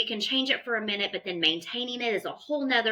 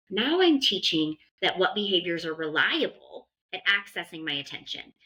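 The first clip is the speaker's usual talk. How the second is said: normal talking voice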